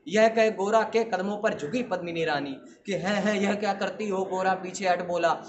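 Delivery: measured verse delivery with ringing line ends; heroic poem recitation. Acted. Student reciting a battle poem to an audience, declamatory. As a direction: declaim it as a rhythmic Rajput ballad.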